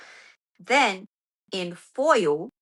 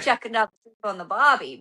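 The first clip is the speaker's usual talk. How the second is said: Aussie accent. Shown as a demonstration. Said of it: "I could say it".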